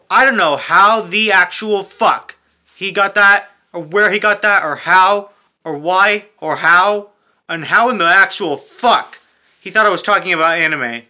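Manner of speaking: baffled, emphatic venting; exasperated rant. Real, not acted. Ranting about a guy who jumped to conclusions, exasperated. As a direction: hammer out each question in disbelief.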